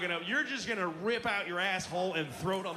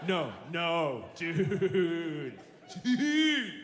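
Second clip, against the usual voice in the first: insistent friend; 3 dB louder, much slower than usual. Retold or imitated.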